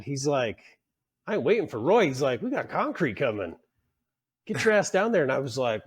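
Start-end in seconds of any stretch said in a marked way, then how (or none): 1.3-2.1 mock-gruff boss, higher and louder; gruff refusal. Superintendent telling the apprentice he won't wait, mock-gruff and louder. 2.4-5.2 barking order. Retold or imitated. Superintendent ordering the apprentice down to work, mock shout.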